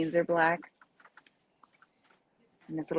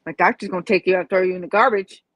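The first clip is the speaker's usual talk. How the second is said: defiant retort; 2 semitones higher, 8 dB louder than usual. Retold or imitated. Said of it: "I'm like".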